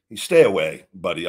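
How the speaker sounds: a sharp, loud "stay away", dropping in pitch; stern warning. Real, not acted. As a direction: warn him off hard. Warning Chase directly.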